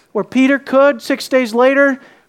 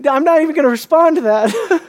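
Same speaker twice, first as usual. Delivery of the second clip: mock dismissal; 6 semitones higher than usual. Voices Jesus dismissing Peter, laughing.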